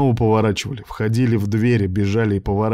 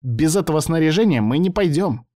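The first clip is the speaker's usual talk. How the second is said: higher, stubborn machine voice; insistent computer professor; 6 semitones higher than usual. A narrator's reading. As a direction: refuse to budge.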